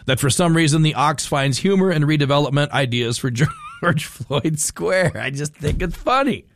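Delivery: stifling a laugh while reading; barely holding back laughter. Real, not acted. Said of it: "since I can't say it with a straight face".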